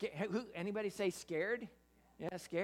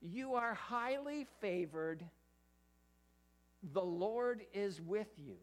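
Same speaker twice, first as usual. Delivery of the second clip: slow, solemn You are highly favored with stress on are; the angel greets Mary with slow solemn words; proclaiming angel; slower than usual. Retold or imitated. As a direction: announce it slowly like a herald. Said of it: "She said, he".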